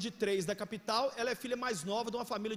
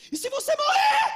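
high, loud, strained shout; pleading yell; 12 dB louder than usual. Retold or imitated. Pastor retelling his plea to a teen with a turbo car, loud yell. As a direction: yell the warning like a desperate plea. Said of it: "deixa eu te pedir, por favor".

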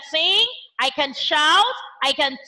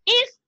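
higher hissed word; snake hiss; 7 semitones higher than usual. Shown as a demonstration. Teacher hisses like a snake for the class. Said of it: "A snake also make the sound".

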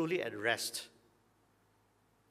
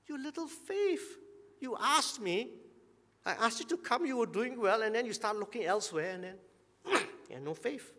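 gentle chiding Jesus; 8 semitones higher than usual. Retold or imitated. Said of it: "Jesus chiding Peter".

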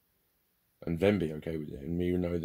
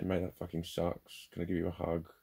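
soft sympathetic tone; 4 dB quieter than usual. Retold or imitated. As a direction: comfort them gently, take your time. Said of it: "in a nice, soft tone of voice".

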